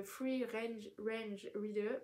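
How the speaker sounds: "free range, range reader" slow and stumbling, "range" repeated; struggling to pronounce. Real, not acted. Vlogger naming her reader type, stumbling over "free range, range reader". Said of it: "pardon j'ai du mal à le dire".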